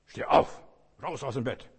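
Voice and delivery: loud rousing command to oneself; self-motivating shout. Shown as a demonstration. Preacher to himself in bed, loud wake-up shout. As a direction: bark it at yourself to get up. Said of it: "ich muss mich selber motivieren".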